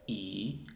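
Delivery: long I, said like its English name "ai"; long I sound. Shown as a demonstration. Teacher listing long vowels, long I as "ai". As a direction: say I as the long glide "ai". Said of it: "Esos son los sonidos largos".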